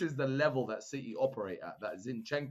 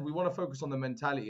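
put-on Dutch accent; faster than usual. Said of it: "I don't know why I'm sounding Dutch".

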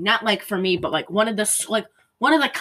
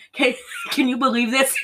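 laughing imitation; 5 semitones higher than usual. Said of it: "I imagine the guy who was writing this".

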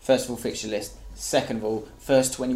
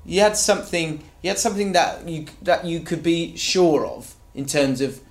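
exasperated telling-off, higher; frustrated rant; 4 semitones higher than usual. Retold or imitated. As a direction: scold the manager from the stands. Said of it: "Part of me just goes".

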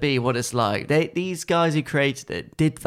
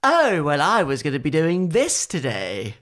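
a light smug lilt; lightly voiced smug brush; smug brush impression. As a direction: sound pleased with yourself. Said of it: "you do a really good impression".

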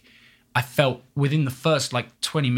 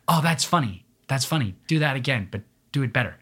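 a hint of the director; 2 semitones higher than usual. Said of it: "she'd be like".

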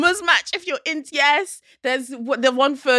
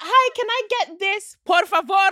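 higher, Italian-flavoured ask ending on por favore; mock Italian; 6 semitones higher than usual. Ordering abroad with a sprinkle of Italian, mock accent. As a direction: toss Italian on the end for spice. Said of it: "I'll be like".

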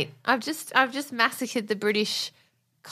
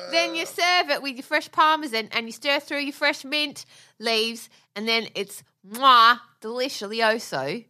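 a hint of a cheerful TV chef, cooking patter; lightly voiced celebrity chef talk; Jamie Oliver impression; 3 semitones higher than usual. Hosting the cooking bit, a mild TV chef voice. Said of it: "my terrible Jamie Oliver impression".

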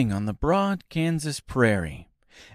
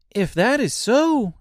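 put-on high, bright delighted girl; joyful child; 12 semitones higher, 5 dB louder than usual. A narrator's reading. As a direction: burst out with joy. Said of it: "said the child joyfully".

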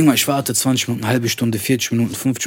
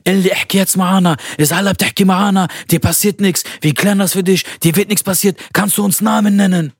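higher, louder coaxing voice, mixing Arabic and German; soothing Arabic-speaking interrogator; 6 semitones higher, 3 dB louder than usual. Retold or imitated. Interrogator calming the scared traveler, higher and louder. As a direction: coax him gently to talk. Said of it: "Der Arabisch".

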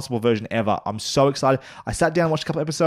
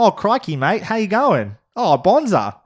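put-on high, loud caricature Australian accent; mocking, over-the-top Australian twang; overdone Australian accent; 8 semitones higher, 4 dB louder than usual. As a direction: ham up a broad Aussie accent. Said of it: "overdone Australian accents".

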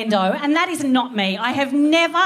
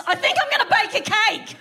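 all-caps text voice; 9 semitones higher than usual. Retold or imitated. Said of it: "just in all caps".

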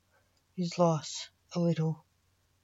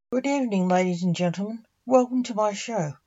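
showman greeting; 3 semitones higher, faster than usual. Acted. Magician opening his stage show.

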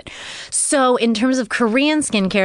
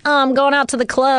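excited quote; 6 semitones higher, faster than usual. Retold or imitated. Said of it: "a lot of people are like".

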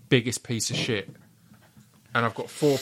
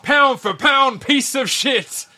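booming, drawn-out fight announcer; ring announcer voice; 11 semitones higher, 9 dB louder, slower than usual. Pretend. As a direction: announce it like a title belt. Mock title announcement.

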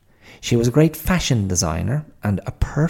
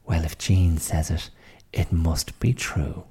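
sarcastic; 2 semitones lower than usual. Acted. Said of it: "You're doing it again".

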